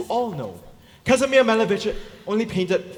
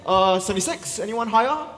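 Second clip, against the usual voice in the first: fish market auctioneer; 4 semitones higher, 3 dB louder than usual. Acted. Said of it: "auctioneer taking bids".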